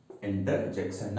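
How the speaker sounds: interjection said very slowly, with every syllable clear; careful pronunciation. Shown as a demonstration. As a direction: draw out interjection for students. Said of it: "not injection". (interjection को धीरे-धीरे साफ़ बोलना)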